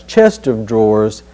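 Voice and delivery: "chest of drawers" with "chest" and "of" kept apart; don't blur "chest of" into "Chester"; clear chest of. Shown as a demonstration. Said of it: "no such object as a Chester drawers".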